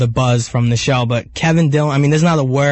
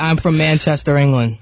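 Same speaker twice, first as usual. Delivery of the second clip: Brooklyn accent. Real, not acted. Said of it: "but with the Brooklyn accent".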